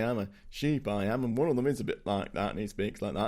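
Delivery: lightly put-on Yorkshire accent. Co-host answering about film sheep accents, mock Yorkshire accent. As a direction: imitate a sheep with a hint of Yorkshire. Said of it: "Like a Yorkshire accent?".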